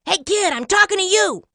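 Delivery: high, loud pushy little creature; impatient tiny talking bean. A narrator's reading. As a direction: squeak insistently for attention. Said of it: "There it was again".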